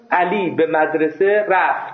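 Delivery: slow, carefully articulated bookish Persian; textbook-sentence delivery, slow and measured; formal written Persian. Shown as a demonstration. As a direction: read it out word by word like a written text. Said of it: "بخوام فارسی حرف بزنم بگم".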